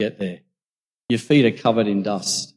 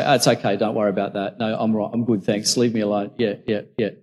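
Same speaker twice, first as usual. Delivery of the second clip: awkward brush-off; 4 dB quieter than usual. Acted. Man caught off guard declines foot-drying, mildly awkward brush-off. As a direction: lightly act out backing away politely.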